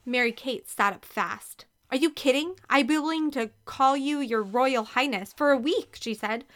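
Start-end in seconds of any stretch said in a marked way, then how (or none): 1.9-6.0 high, eager amazement; excited disbelief. A narrator's reading. Girl answers her sister's offer, excited and higher.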